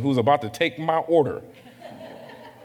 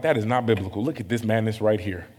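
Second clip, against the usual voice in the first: self-righteous mock rant. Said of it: "just my go-to".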